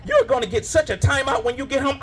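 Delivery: a hint of a mom losing control of her kid; frazzled mom in store. Mother begging her son to sit in cart, fraying. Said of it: "we've all seen this lady".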